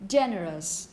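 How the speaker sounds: "Generous" falling low to a weak "us"; "Generous" ending in schwa plus s. Shown as a demonstration. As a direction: say "Generous" with a reduced last vowel. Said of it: "going to be pronounced exactly the same".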